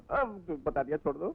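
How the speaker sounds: pleading. Acted. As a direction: beg quietly to be released. Minister begging to be let go. (धीमी, गिड़गिड़ाती विनती)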